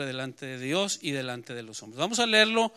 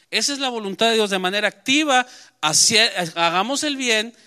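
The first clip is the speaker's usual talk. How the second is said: emphatic preaching; 5 semitones higher, 5 dB louder than usual. Real, not acted. Preacher repeating the point emphatically.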